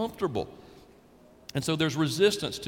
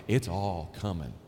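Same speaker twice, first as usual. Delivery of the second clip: low ominous tone; 10 semitones lower, 4 dB quieter than usual. Real, not acted. Preacher's ominous low delivery.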